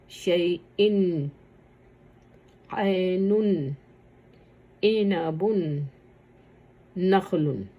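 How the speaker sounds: slow, with a clear n at the end of شیئن; tanween drill. Shown as a demonstration. Teacher sounding out the last tanween examples. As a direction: draw out شیئن, then close on the n. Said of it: "تنوین کی آوازیں نکالی جائیں گی".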